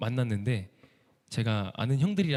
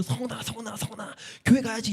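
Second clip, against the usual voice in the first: high sing-song calling through the door; calling his name; 7 semitones higher than usual. Retold or imitated. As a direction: coax him out like a pushy preacher. Evangelist calls him at the door.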